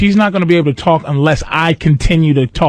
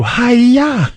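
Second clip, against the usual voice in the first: higher-pitched imitation karate yelp; mock karate cry; 7 semitones higher than usual. Drunk heckler karate chopping at cops, mock battle cry. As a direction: let out a hammed-up chop cry. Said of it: "she was karate chopping at the cops".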